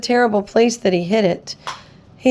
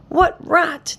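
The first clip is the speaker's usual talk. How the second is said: higher jeering monkey cry; mock shout; 7 semitones higher than usual. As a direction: jeer it out. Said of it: "came shouting".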